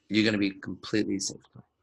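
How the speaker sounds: calm, honest promise said with a smile; mean every word, reassure her; sincere reassurance. Shown as a demonstration. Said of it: "With a smile".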